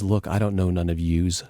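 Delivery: lightly imitated Brooklyn accent; a hint of Brooklyn street talk. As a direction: quote her with a touch of Brooklyn. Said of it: "in her great Brooklyn accent".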